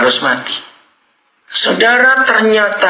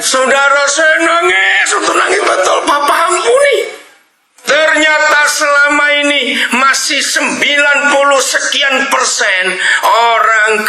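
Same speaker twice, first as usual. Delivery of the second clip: impassioned preaching; 11 semitones higher than usual. Acted. Pastor telling the congregation how he wept, preaching at full force.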